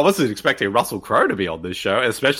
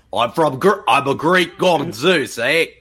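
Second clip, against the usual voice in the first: fake Greek accent; slower than usual. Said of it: "I wanna hear your Greek accent".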